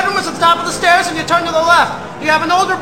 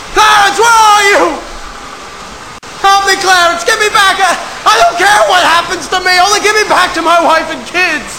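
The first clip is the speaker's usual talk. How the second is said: desperate pleading cries; 2 semitones higher than usual. Acted. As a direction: cry out to the sky for help. George begging Clarence to return.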